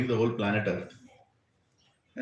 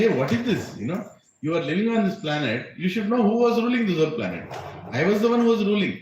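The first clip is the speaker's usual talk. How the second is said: agitated; 5 semitones higher, faster than usual. Retold or imitated. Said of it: "getting more and more agitated".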